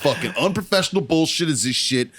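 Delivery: mock indignant manager-demanding rant; half-hearted Karen outrage at the salesman; Karen complaint. Complaining to the dealership salesman, mock Karen indignation. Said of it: "I went full fucking Karen".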